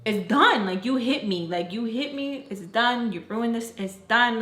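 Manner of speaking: mildly acted anger, punching the first words; insistent, mock-angry protest; mad retelling. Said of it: "I'm just so mad".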